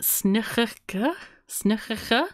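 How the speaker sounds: slow, questioning tries at "snigurka"; tentative "snigurka", unsure of the throaty sounds; unsure pronunciation. Real, not acted. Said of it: "even if I can't pronounce it".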